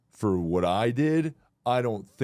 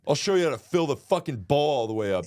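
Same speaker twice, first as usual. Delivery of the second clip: mock angry rant; 4 semitones higher, faster than usual. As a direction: spit it at the staff. Yelling at Chipotle workers.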